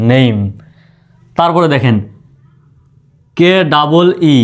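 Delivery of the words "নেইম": নেম drawn out as "neim"; polished "ne-im" for নেম; stylish, standard pronunciation. Shown as a demonstration. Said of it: "একটু style করে বলবেন".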